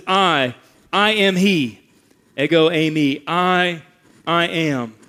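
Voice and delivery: slow, forceful "I, I am", each "I" set apart; emphatic I AM. Shown as a demonstration. Preacher quotes God in Isaiah, "I, I am" slow and emphatic. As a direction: punch "I", hold, then land "I am". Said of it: "But there's this emphasis".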